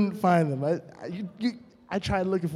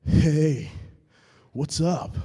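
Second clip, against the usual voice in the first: imitating deep-voiced friend; 2 semitones lower, much slower than usual. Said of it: "this is how he sounds".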